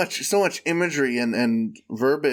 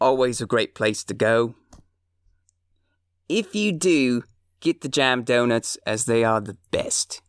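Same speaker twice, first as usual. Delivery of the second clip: a shaky Australian accent drifting toward English; attempted Australian accent. Shown as a demonstration. Reading a market review aloud in an attempted Australian accent. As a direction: try to Aussie up a donut review. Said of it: "I'll see if I can Aussie it up".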